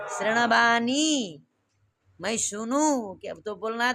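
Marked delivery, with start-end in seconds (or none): 0.1-1.4 slow शृणवाणी with long vowels and curled-tongue ण; careful retroflex शृणवाणी. Shown as a demonstration. Teacher models what must be said, slow careful शृणवाणी. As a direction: draw out शृणवाणी syllable by syllable. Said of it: "तो क्या बोलना है?".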